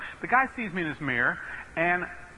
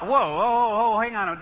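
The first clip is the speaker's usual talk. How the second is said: higher, louder string of whoas; alarmed interruption; 5 semitones higher, 4 dB louder, slower than usual. Retold or imitated. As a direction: halt the caller in mock alarm. Cuts off alarming phone opening.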